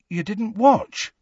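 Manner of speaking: high, slow, faint disbelief; small high voice of someone let down; faint, dismayed. A narrator's reading. Ron learns his friends missed his match, faintly dismayed. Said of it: "he said faintly".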